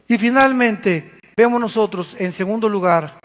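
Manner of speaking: normal talking voice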